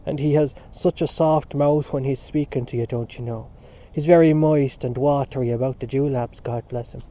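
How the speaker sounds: a lightly voiced, oily hotel-keeper; mock the smooth-talking landlord, lips licked. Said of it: "began to speak with the voice of the hotel-keeper".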